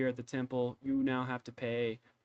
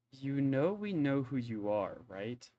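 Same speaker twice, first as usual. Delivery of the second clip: suspicious; slower than usual. Acted. Suspicious villagers confront him.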